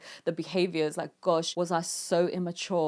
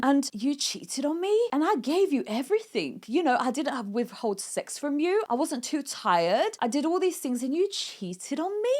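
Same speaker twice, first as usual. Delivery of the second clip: seductive boss woman; 5 semitones higher than usual. Acted. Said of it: "This is what I was trying to channel".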